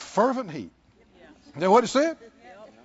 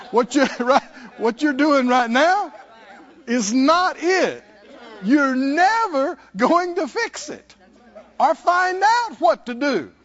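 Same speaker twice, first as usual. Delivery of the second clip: louder, higher and slower, driving it home; louder, slow preaching emphasis; 5 semitones higher, 5 dB louder than usual. Real, not acted. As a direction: press the point on the church. Preaching hard at congregation.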